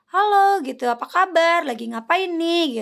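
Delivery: high, loud mock-friendly Halo; mock scammer caller. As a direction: imitate a scammer's chummy phone greeting. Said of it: "si penelpon ini tuh akan bilang".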